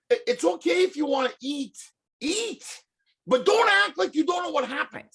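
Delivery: high, pleading lecture to big eaters; half-laughing, high-pitched exasperation; exasperated plea. Retold or imitated. Comedian telling buffet eaters off, exasperated and high. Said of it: "and I always say to them".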